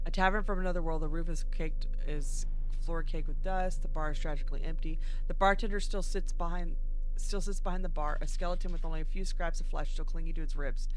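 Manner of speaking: measured game narration; story narration. Acted. Player reading a tavern description aloud, story narration. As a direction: read the scene out evenly.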